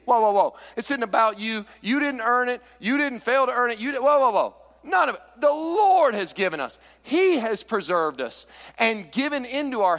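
urgent loud preaching. Acted. Preacher voicing David stopping his men, loud and urgent. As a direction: cry out "whoa" to stop them. Preacher halting the proud crowd.

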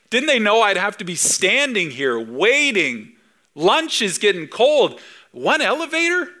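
high, exasperated griping; annoyed tourist. Pretend. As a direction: complain like a tourist stuck waiting. Impatient visitor, lunch getting cold.

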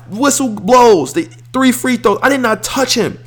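indignant protest. Retold or imitated. Retelling the game-losing foul call to viewers, heated and indignant. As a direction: pitch climbs high as he swears he never touched him. Insisting he never fouled shooter.

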